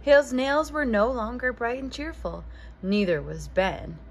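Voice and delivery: bright, gently animated storybook reading; reading to children. A narrator's reading. Host reading a picture book aloud to young listeners, lively storytelling. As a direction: read it like a bedtime picture book for kids.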